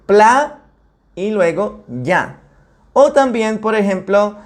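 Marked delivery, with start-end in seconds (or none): 0.1-0.6 PLA as one separate syllable; first syllable alone. Shown as a demonstration. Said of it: "tenemos que decir". 1.9-2.4 YA as its own syllable; second syllable alone. Shown as a demonstration. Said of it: "tenemos que decir".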